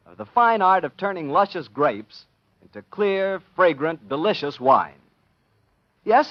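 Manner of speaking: radio sponsor read; wine ad read. Acted. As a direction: sell the wine warmly to listeners.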